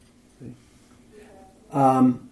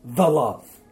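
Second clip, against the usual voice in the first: "the" said as a full, weighted word before "love"; stress on THE; 2 semitones lower than usual. Shown as a demonstration. Teacher showing how the Greek article reads, stress on THE. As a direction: lean on "the" in "the love". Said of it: "so it'd read this".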